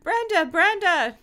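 high, loud cries of a name; desperate calling. Acted. Tracy shakes lifeless Brenda, desperate calling. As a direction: call out as if to rouse her.

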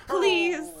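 cowering plea. Acted. Brendan in pain begs.

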